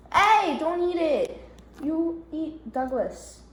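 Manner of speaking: slow, teasing telling-off of the cat; a slow "hey" to a nibbling cat; mock scolding. Real, not acted. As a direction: warn the cat playfully.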